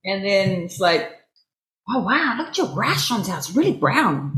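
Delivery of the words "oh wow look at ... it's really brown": a clumsy attempt at an American accent; bad American accent. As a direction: imitate his American accent, badly. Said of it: "I can't do his American accent".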